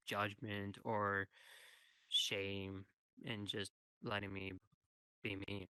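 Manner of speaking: softening as tears come; quietly choked up; tearful and fading. Real, not acted. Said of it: "trying not to cry".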